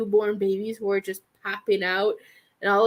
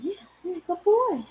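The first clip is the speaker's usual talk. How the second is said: whispering; 8 semitones higher, faster than usual. Real, not acted. Whispering to the dog.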